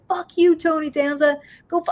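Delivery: high, loud mock yell; retold outburst. Cursing out Tony Danza on the street, high mock yell. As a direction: relive losing it on the street. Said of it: "like, I lost it".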